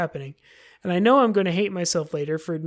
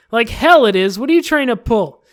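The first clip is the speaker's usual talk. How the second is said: louder, indignant comeback; angry retort; 5 semitones higher, 9 dB louder than usual. Acted. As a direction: snap back at the club president. Natsuki arguing with Monica.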